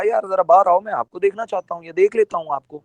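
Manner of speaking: quick, casual and friendly; easygoing, quick invitation. Shown as a demonstration. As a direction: ask him out kindly, no threat. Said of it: "بات کا مطلب ہی بدل گیا".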